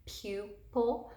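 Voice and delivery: pupil sounded out in two parts, PU-pil; syllable-by-syllable. Shown as a demonstration. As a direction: say "pupil" with a break after the long U. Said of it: "where that syllable break is".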